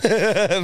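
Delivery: loud, high burst of real laughter. Real, not acted. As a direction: crack up at the word. Laughs at the word excrement.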